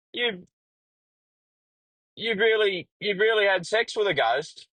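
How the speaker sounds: incredulous. Retold or imitated. Host stunned by his answer.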